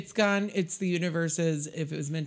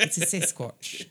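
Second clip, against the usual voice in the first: Sasquatch voice; slower than usual. Acted. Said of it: "the fucking Sasquatch dick voice".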